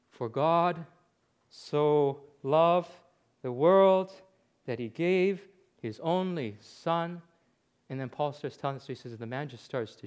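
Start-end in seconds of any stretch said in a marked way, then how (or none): 0.1-7.2 slow, word by word with long pauses; halting Bible reading. Retold or imitated. Dying man reads a verse to the preacher, halting. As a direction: read haltingly, pausing after each phrase. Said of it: "the guy starts to read".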